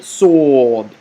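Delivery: Sod with a strong S and long, loud rounded vowel; throaty heavy S. Shown as a demonstration. Teacher demonstrating letter Sod, heavy and throaty. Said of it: "using your throat".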